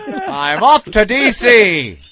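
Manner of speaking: mock chipper farewell. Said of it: "Did you say it like that".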